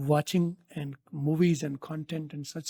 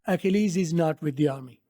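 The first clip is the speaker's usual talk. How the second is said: slow teaching read; much slower than usual. Shown as a demonstration. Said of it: "repeats line slowly".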